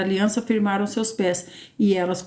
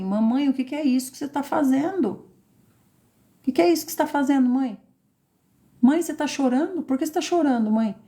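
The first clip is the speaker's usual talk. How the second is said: put-on higher, quick and eager like a small child; curious child voice; 4 semitones higher, faster than usual. Preacher voicing a child asking why mother cries, higher and eager. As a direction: ask it like a puzzled little kid.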